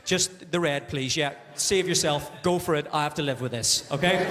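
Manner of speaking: low, resigned aside to the waiter; weary partner. Acted. Man ordering for his indecisive girlfriend, resigned. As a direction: cut in low, long-suffering.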